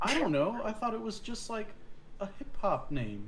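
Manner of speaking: high-pitched, hesitant questioner; high voice, breaking into amusement; retold cartoon dialogue. Acting out both sides of dialogue.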